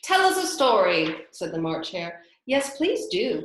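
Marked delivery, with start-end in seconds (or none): 0.0-1.3 loud, bossy hare voice; March Hare voice. Acted. March Hare's voice. 2.5-3.4 pleading. Acted. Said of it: "pleaded Alice".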